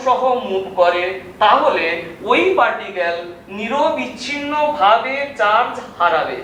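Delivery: slow, deliberate dictation pace. Shown as a demonstration. Teacher dictating slowly so students can take notes. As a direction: spell it out slowly so they can write. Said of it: "আস্তে আস্তে বলছি".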